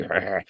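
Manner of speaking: soft, low "argh"; muted mock growl; low grumbling growl. Shown as a demonstration. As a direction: growl it quietly under the voice. Imitated noise for rival club's reputation.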